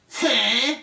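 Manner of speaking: the scribes echo him, loud and baffled; scribes' loud huh. Acted. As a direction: blurt it out like a puzzled echo.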